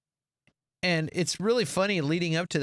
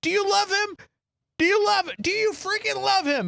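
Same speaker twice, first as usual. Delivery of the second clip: high, insistent mock interrogation; imitating a worked-up husband; acted insistent demand; 3 dB louder than usual. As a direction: press the question, pitched way up. Acted jealous husband demanding an answer.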